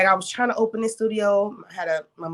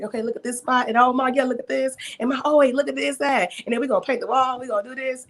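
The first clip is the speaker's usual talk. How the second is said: pitched up, eager tour of the new space; excited showing off; 5 semitones higher, faster than usual. Retold or imitated. Owner showing her mom the studio on a video call, excited and pitched up. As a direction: gush about every corner of the studio.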